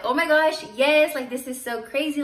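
bubbling over with joy, then easing off; excited oh my gosh, yes; retold excitement. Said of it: "I was so excited".

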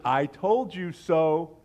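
very slow, smug I-told-you-so; finger-wagging. Acted. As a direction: draw it out like a scolding. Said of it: "Here's the finger wagging".

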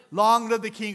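a lightly voiced villain lion; Scar voice. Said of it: "that's my lion impression".

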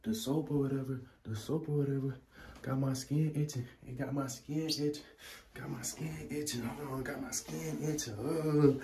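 fake complaint to mom. Prankster rehearsing a call to Ma, mock complaining. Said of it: "I'ma call in here and be like".

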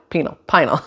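Pinal tried as PEE-nul, then PIE-nul; puzzling out Pinal, PEE-nul to PIE-nul; trying two pronunciations. Shown as a demonstration. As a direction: run through Pinal with a short first vowel, then as "pie-nul". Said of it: "I don't know how to say it".

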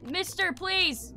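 calling for help. Pretend. Player begging the dog for help, calling out. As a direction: draw out a plea for rescue.

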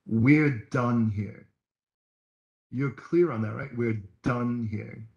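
slow, firm, final. Retold or imitated. Preacher retelling how he ended the fight, slow and firm. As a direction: lay down the line calmly. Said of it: "I'm like".

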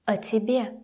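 "О тебе" with a brief, reduced о; short uh for the о in "О тебе"; shorter reduced o. Shown as a demonstration. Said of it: "sound a little bit shorter".

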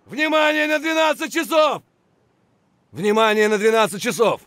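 shouted callout. Acted. Soldier warning team, shouting. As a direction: call it out loud.

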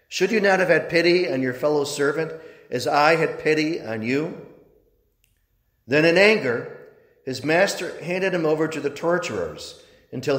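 measured, solemn reading of scripture; gospel reading. Acted. Priest reading the Gospel at Mass, solemn proclamation.

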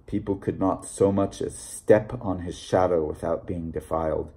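low, soft and secretive. A narrator's reading. Stranger entrusts a secret about the book, hushed and low. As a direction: drop your voice as if entrusting a secret. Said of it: "he lowered his voice, as though entrusting me with a secret".

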